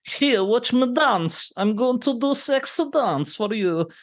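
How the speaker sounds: high, slow, hammed-up seductive purr; teasing falsetto send-up of a sexy dance offer; mock seductive Valentina. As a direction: camp up a flirty woman, pitched high and drawn out. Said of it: "then she's like".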